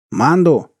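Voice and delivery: worried shout; agitated cry. A narrator's reading. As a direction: call the name out in agitation. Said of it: "послышался вдруг взволнованный возглас".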